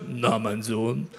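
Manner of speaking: very low, slow booming God voice; deep God voice. Acted. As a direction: speak as God, deep and unhurried. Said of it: "Gott fragt ihn mit tiefer Stimme".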